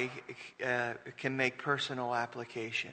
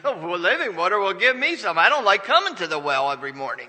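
mock woman at the well; 4 semitones higher, 9 dB louder, faster than usual.

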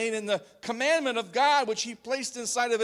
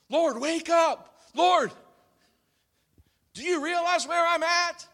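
pleading in fear, pitched high and loud; mock panicked plea; 9 semitones higher, 6 dB louder than usual. Fearful cry to God in storm.

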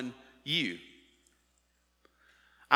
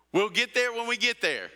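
lightly voiced cartoon dad, pitched higher; Mister Incredible; 6 semitones higher than usual. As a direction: quote the movie dad with a wink. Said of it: "Like Mister Incredible".

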